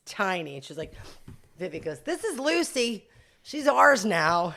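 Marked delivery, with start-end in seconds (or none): 2.0-4.5 put-on higher, slow little girl proudly announcing; a light child's voice, slow and proud. Daughter showing off the new puppy, lightly voiced child. Five-year-old daughter quoted bringing dog.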